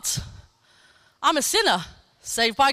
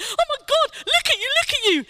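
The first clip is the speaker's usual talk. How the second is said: excited greeting; 11 semitones higher than usual. Retold or imitated. Greeting the healed woman.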